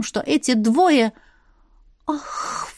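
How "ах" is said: hissed under the breath, threatening; menacing hiss. A narrator's reading. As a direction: hiss it at them. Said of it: "угрожающе прошипела я". (угрожающее шипение)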